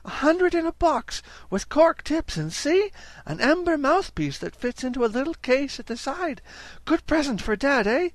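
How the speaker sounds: put-on high, eager boy's voice; boy Edwin. Edwin to Willie in his bedroom, eager boy. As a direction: show off the present.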